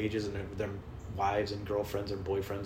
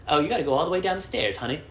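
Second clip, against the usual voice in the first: high, louder sassy put-on voice; terrible impersonation of venue worker; 6 semitones higher, 4 dB louder than usual. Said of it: "That was a terrible impersonation of him".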